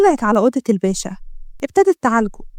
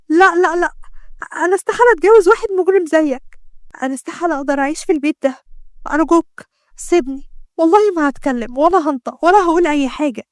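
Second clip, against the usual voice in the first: higher, a touch of tears in the plea; tearful pleading; 4 semitones higher than usual. Acted. Doctor refuses to marry the criminal, mildly tearful pleading. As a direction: beg him through mild tears. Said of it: "فضلت تعيط وقالت".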